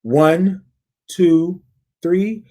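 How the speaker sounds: slow build-up count; counting to three. Shown as a demonstration. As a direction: count them in, rising on three. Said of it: "On the count of three".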